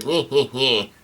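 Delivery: mock "hee hee" chuckle; imitated laugh. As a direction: act out a villain's laugh, lightly. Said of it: "Brulette starts laughing".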